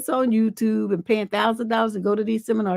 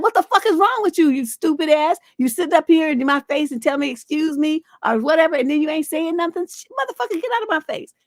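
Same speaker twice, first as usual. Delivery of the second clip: exasperated brush-off, climbing higher; irritated woman telling him off; 5 semitones higher than usual. Retold or imitated. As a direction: play the fed-up woman chewing him out. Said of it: "She'll be like".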